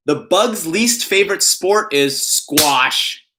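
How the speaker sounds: slow, weighty punchline read; pun reading voice. Pretend. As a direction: lean on every word of the pun. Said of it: "I always put on that voice when I'm reading puns".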